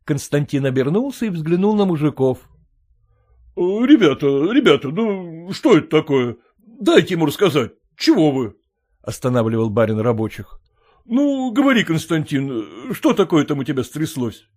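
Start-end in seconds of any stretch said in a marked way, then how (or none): 3.5-14.5 a surprised landowner asking back; puzzled master. Acted. Master calms the laughing workers.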